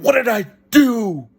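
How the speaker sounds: reenacted desperate cry; retold scream. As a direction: wail the question over and over in protest. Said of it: "And I screamed".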